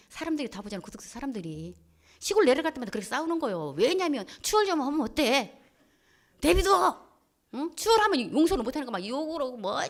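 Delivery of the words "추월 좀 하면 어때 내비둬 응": exasperated retort. Retold or imitated. Wife telling husband to let drivers overtake, raised voice. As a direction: burst out briefly, pitched up.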